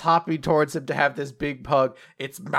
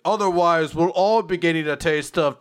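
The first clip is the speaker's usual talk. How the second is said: higher, loud theatrical build-up; dramatic movie line; 4 semitones higher, 4 dB louder than usual. Shown as a demonstration. Narrator replays Lake's warning, dramatic movie line. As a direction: declaim it like a trailer line. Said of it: "like, a movie line".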